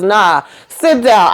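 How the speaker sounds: slow, drawn-out "sit down" command; lightly acted order, stretched out slowly; retold firm order. Hunter stopping Donald from leaving, slow mock-firm order.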